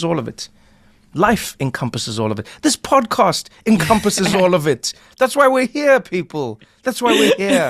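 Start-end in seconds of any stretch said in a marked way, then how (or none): 2.6-7.7 much higher and louder, rallying; rally the listeners; hyped up. Real, not acted. Host rousing the podcast listeners, high and loud. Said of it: "hyping the podcast".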